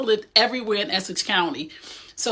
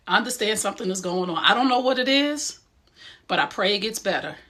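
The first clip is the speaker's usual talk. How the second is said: calm reassurance. Shown as a demonstration. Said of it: "So I'm gonna tell that person".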